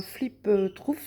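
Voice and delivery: English words in a thick French accent; clumsy French-accented English. Real, not acted. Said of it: "on notera mon super, euh, accent anglais".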